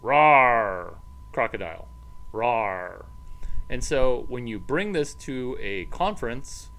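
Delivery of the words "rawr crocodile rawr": mock roar. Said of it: "White alligator from San Francisco".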